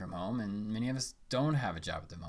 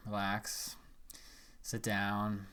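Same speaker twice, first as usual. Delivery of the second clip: calm guiding voice with long pauses; unhurried phrases, leaving room to breathe; guided meditation; 4 dB quieter than usual. Acted.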